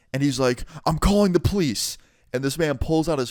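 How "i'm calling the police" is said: high-pitched mock threat; outraged manager. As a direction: imitate an indignant threat to report. Enraged manager's threat, acted.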